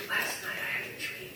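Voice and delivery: breath-light attempt at Fergus's accent. Shown as a demonstration. Preacher showing how he told his dream, in imitated Fergus's accent. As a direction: try Fergus's accent, almost without voice. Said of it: "in this accent".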